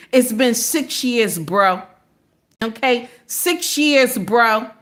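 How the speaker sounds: lightly done slow Jersey accent. Shown as a demonstration. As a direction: say it like a guy from Jersey, easy. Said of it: "Let me put my Jersey accent in here".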